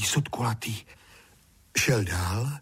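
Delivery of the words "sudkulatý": sudkulatý whispered; whispered repetition. A narrator's reading. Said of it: "hned si je desetkrát zopakoval".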